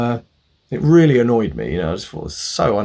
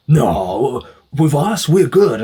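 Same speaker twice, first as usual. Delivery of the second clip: higher, louder mock reassurance; performative protest; 4 semitones higher, 6 dB louder, much slower than usual. Mechanic brushing off annoyed customer, hammed-up protest. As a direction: imitate a mechanic's showy denial. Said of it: "all this performative".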